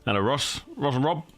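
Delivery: bouncy rising hellos; greeting squadmates with bouncy rising hellos; sing-song hellos. Real, not acted. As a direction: greet each friend cheerily with a lift. Cheery sing-song greetings to friends.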